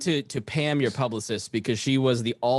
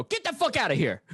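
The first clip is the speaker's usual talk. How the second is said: high, hammed-up get-out yell; imitating Miss Pat throwing people out; mock yelling; 10 semitones higher than usual. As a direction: bark them out of the room, playfully. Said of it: "You were, you were yelling".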